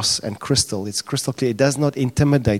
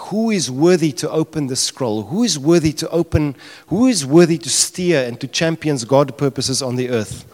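raised, ringing call with high-pitched stress on each "who"; crying out; 4 semitones higher, 3 dB louder than usual. Retold or imitated. Preacher voicing someone in heaven who asks who is worthy, crying out. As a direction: call out the challenge as a retold cry. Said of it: "someone cries out".

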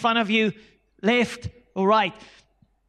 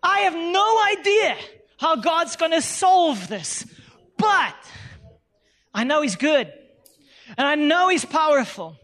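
high, earnest trust in God; confident testimony to a friend; hopeful mock caller; 4 semitones higher than usual. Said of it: "you phone a friend".

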